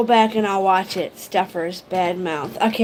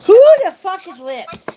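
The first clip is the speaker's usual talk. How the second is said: louder, higher exasperated question; exasperated outburst; 8 semitones higher, 7 dB louder than usual. Real, not acted. Streamer fed up with unexplained name, exasperated shout. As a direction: finally blurt it out, fed up.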